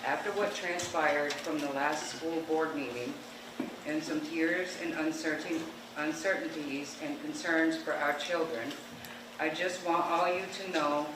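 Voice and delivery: reading a heartfelt letter aloud, slowly and moved; emotional reading. Real, not acted. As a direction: read it out slowly, holding back emotion. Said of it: "sorry, I'm a little emotional".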